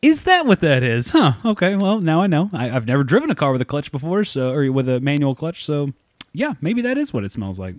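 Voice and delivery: feigned innocence. Retold or imitated. New driver pretending not to know about the clutch, mock-naive. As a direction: play dumb with wide-eyed surprise. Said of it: "And I was like".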